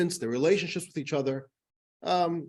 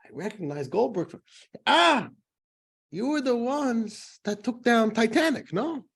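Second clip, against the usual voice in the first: naive businessman voice; 8 semitones higher than usual. Acted. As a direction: play the naive newcomer, puzzled, drawing it out. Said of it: "So this Chinese guy says".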